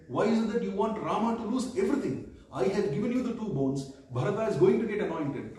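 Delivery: retold king demanding why his wife turned so evil; agitated. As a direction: press the queen hard, half-raising your voice. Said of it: "he gets further agitated".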